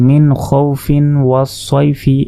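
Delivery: মিন খৌফিন ওয়াসয়ফি joined in one slow, measured breath; read straight through. Shown as a demonstration. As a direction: recite খৌফিন ওয়াসয়ফি without stopping or stretching the vowels. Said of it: "একবারে যদি আমরা পড়ে যাই".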